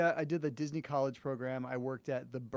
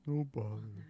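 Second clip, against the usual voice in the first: Winnie the Pooh; 5 semitones lower, 3 dB quieter, slower than usual. Retold or imitated. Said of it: "The Winnie the Pooh".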